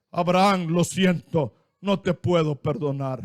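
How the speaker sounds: hint of a stern God turning him away. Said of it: "entonces Dios le dice". (voz de Dios, grave y baja)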